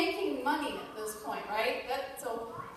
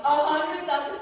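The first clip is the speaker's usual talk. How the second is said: can't believe the number; astonished disbelief; 3 semitones higher, 6 dB louder than usual. Retold or imitated. Newcomer hearing what conference attendees earn, astonished. Shocked at incomes.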